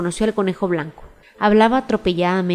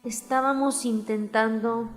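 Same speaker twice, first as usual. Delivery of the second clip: softer, slow, meek plea; humble; 5 dB quieter, slower than usual. A narrator's reading. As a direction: mumble it kneeling, humbly. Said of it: "en tono muy humilde".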